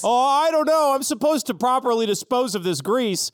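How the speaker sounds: worried zebra fussing over his job; nervous zebra worker. Acted. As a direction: fret about breaking the rules.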